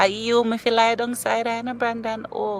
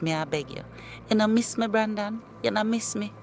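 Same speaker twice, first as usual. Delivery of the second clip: pleading. Acted. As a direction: plead on your knees to get him back. Ex begging to be taken back.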